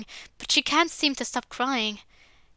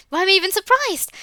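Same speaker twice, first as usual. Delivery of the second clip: exasperated; 8 semitones higher, 7 dB louder than usual. Acted. Bitter inner rant.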